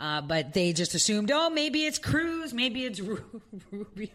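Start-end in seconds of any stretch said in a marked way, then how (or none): 1.3-4.1 laughing while talking, much higher pitch. Speaker explains what the opposition assumed, laughing while talking. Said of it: "I'm sorry, I'm laughing".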